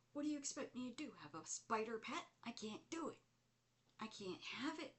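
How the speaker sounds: high, fast retold protest; exasperated protest. Acted protest to the spider.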